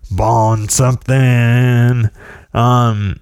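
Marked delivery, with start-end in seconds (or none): 0.1-2.1 posh French. Shown as a demonstration. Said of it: "posh Paris sounding name".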